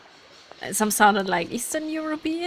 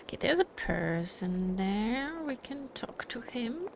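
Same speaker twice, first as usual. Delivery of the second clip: whisper; 2 semitones higher, 6 dB quieter than usual. Real, not acted. Sneaking up, spotting a game character.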